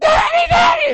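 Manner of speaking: shrill, piercing, high, loud screaming cry. Speaker retells Aaron hanging from a branch: imitating Aaron screaming. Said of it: "and he's screaming".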